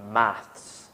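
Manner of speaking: maths said the British way, with a clear final s; British pronunciation. Shown as a demonstration. British teacher modelling maths for students to repeat. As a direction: model maths as UK English speakers say it. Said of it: "And one last time".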